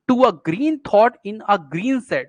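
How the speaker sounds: quick "To a", long stressed "green thought"; slow reading, weight on "green thought" and "green shed"; pyrrhic scansion. Shown as a demonstration. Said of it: "यहाँ पे अनस्ट्रेस". ("green thought" पर ज़ोर देकर धीमा पाठ)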